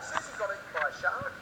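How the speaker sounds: "shark" lifted as if asking; question intonation. Acted. Telling serious news about Susie, with an Australian questioning rise on "shark". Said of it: "make every sentence sound like it's a question".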